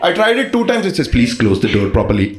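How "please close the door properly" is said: low, deep machine announcement; robotic lift voice. Retold or imitated. Mocking the lift's recorded door warning.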